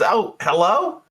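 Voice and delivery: high, slow sing-song hello; high bartender voice. Acted. Jeannie picking up the call, high and sweet. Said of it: "she goes".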